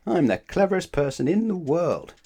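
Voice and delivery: high, loud proud announcement; loud boast. Acted. Mister Clever boasting loudly to Mister Happy. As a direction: trumpet it to the stranger.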